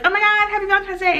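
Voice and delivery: high, fast mock squeal of a greeting; excited girlfriend. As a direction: gush it in one quick rush.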